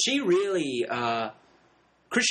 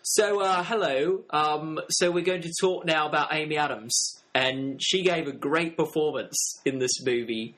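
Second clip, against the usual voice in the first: put-on English accent. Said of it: "my English cousin".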